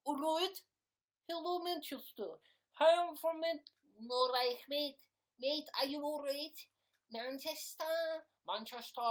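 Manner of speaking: high, loud mock Manchester accent; attempted Manchester accent. Streamer trying out a suggested accent, hammed-up Manchester accent. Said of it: "Get a Manchester accent".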